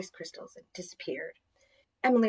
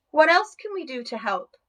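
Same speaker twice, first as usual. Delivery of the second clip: higher, louder eager call; shouting; 7 semitones higher, 6 dB louder than usual. Acted. Emily calling to Mother Nature over the forest, shouting. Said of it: "Emily shouted above the happy noise".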